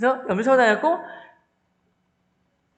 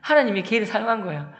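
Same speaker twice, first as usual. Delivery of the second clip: usual speaking voice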